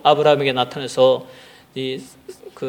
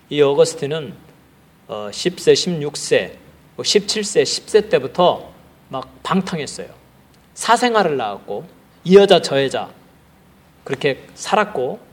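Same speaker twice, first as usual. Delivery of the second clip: ordinary delivery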